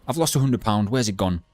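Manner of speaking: mock arguing. Woman in the bank queue arguing over lost money, mock-indignant. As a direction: play up a customer's grievance, half-mocking. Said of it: "she's arguing".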